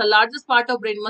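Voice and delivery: very slow drawn-out "largest part of brain"; slow dictation. Shown as a demonstration. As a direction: stretch every word for note-taking. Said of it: "दिमाग का सबसे बड़ा हिस्सा".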